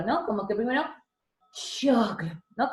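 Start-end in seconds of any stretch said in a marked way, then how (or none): 1.5-2.3 choclo with a stretched ch, slow and clear; demo word. Shown as a demonstration. Teacher demonstrates the ch in choclo to students. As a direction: draw out the ch in choclo. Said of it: "Como que cerraste, y botas aire".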